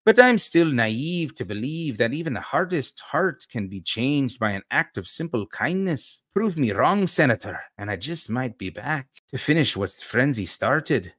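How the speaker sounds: lightly put-on Scottish lilt for a reproachful rescuer; Scottish accent. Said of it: "How's my, uh, uh, Scottish accent".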